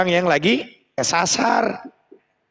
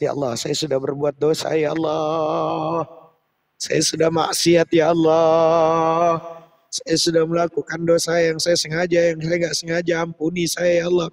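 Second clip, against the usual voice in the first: mild tearful prayer. Pretend. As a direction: beg forgiveness, drawing out ya Allah. Acting a sinner praying, weeping. (doa memohon ampun yang sedikit sedih)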